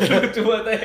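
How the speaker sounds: laughing out the words; amused high laughing speech. Real, not acted. Laughing at friend's lisp.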